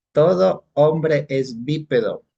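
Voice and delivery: "Todo hombre es bípedo" read slowly, word by word, with "todo" stressed; slow dictation. Shown as a demonstration. Teacher rereads the premise to the class, slow and deliberate. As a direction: spell out each word of the premise slowly so students catch it. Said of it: "Como les dije, tengo dos premisas".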